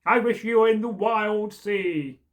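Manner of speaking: lively read-aloud storytelling; storyteller voicing carlin and boy; story narration. A narrator's reading. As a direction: tell the folk tale to listeners. Reads version B of tale.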